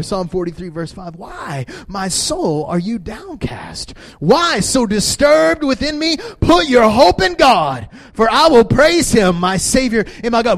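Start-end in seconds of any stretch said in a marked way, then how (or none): 1.1-10.6 slow, rising, louder proclamation; preaching at full force; declaring scripture. Shown as a demonstration. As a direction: proclaim the psalm over yourself. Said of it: "declaring this scripture".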